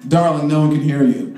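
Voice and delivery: a hint of a bored diva; the mic's voice. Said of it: "the mic is thinking".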